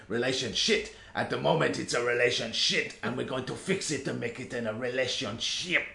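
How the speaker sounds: high, hammed-up self-help doctor voice; over-the-top Doctor Hakim. Telling her co-host about the game's talking book, high hammed-up guru voice. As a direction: ham it up like a pushy relationship guru. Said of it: "like, way over the top".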